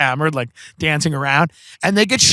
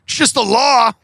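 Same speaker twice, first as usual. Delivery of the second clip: high-pitched, egging-on imitation; playful mock goading; 8 semitones higher than usual. Friend goading his parents to drink, playful mock goading. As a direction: talk them into it with mock innocence. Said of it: "He's like".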